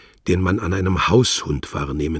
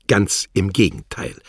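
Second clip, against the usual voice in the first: a curt, louder snarl; rasped; 3 semitones higher, 5 dB louder than usual. Acted. Wladimir contradicts Worlock, snarling curtly. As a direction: snap it back curtly. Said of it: "schnarrte Herr Wladimir".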